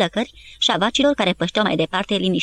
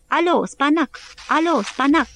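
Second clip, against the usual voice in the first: higher, insistent radio call; radio operator repeating; 7 semitones higher, slower than usual. A narrator's reading. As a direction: keep calling into the dead radio. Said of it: "repetând într-un colț". (apel radio repetat, insistent, mai înalt)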